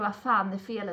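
ordinary talk, nothing marked

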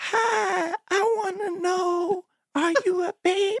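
put-on weird baby voice, very high and very slow. Describing how a man talks, imitating his weird baby talk. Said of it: "the weirdest fucking baby talk I've ever heard".

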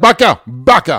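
put-on yell. Describing going in and shouting at someone, acting out a shout. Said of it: "skriker åt Bosse".

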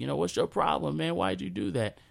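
put-on tearful, crying, hurt and upset childlike voice. Retelling being confronted in the lunchroom, imitating own crying scream. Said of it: "crying and screaming and saying".

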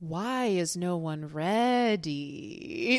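put-on, very slow, condescending, disappointed, "ready" drawn out. Describing how she acts at the run-through with everybody, mock-disappointed. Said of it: "she's very disappointed".

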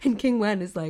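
ordinary delivery

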